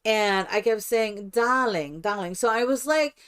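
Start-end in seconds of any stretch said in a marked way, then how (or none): 1.3-2.3 put-on "darling" in a light broken-English European accent; a hint of mock Eastern European accent; mixed foreign accent. Greeting residents in costume, mixed foreign accent. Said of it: "my accent is a cross between".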